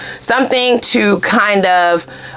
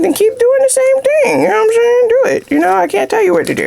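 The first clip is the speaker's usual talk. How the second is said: sarcastic. Real, not acted. Sarcastic dare to keep repeating.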